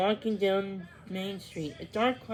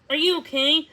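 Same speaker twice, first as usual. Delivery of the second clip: high, loud anxious question; worried call; 8 semitones higher, 8 dB louder than usual. A narrator's reading. Shopkeeper calling to fallen Owen, high and worried. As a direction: call out to check on him. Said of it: "he exclaimed".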